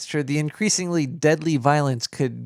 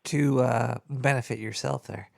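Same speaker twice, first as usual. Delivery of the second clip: slurred, tipsy mumble; 3 semitones lower, 4 dB quieter than usual. Real, not acted. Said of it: "I am slurring a lot".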